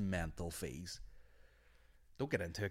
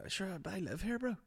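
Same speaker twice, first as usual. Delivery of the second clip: joking comeback; 11 semitones higher than usual. Retold or imitated. Retold joking reply to spide.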